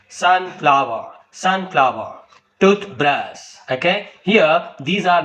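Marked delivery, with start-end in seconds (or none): 0.1-2.2 sunflower with SUN forceful, flower falling; stress on first part. Shown as a demonstration. Teacher repeating an example compound noun, stress on first part. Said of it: "first part of the word is spoken with force". 2.6-3.4 toothbrush with TOOTH stressed; stress on first part. Shown as a demonstration. Teacher showing a compound noun example, stress on first part. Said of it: "first part of the word is spoken with force".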